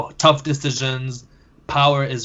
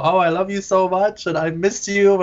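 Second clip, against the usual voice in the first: German lady to plane; 5 semitones higher than usual. Retold or imitated. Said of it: "she starts speaking in German".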